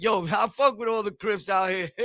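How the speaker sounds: lightly voiced Blood bragging; a hint of a Blood talking big; imitating a Blood. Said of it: "that be like".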